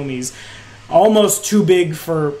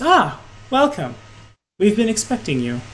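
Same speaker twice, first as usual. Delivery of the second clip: a lightly voiced, higher greeting; welcoming hostess; 6 semitones higher than usual. Woman in the clouds greeting expected visitors, welcoming. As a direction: greet expected guests in a slightly lifted voice.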